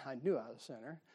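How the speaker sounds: laughing. Real, not acted. Preacher laughing at his own lost past, chuckling. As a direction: laugh it off at yourself.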